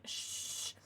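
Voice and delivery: whispered shh; playful shush. Real, not acted. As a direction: hush them softly. Hushing a chatter.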